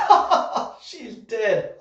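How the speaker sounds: breathy, gleeful mock cackle then a flat punchline; hammed-up maniac glee; mock crazy laugh. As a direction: laugh like a delighted lunatic. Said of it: "and you're like".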